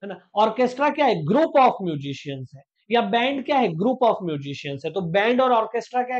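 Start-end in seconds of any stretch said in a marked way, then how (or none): 1.2-2.6 lower, drawn-out definition; very slow teacher definition; slow dictation. Shown as a demonstration. 3.7-4.9 lower, drawn-out definition; very slow teacher definition; slow dictation. Shown as a demonstration.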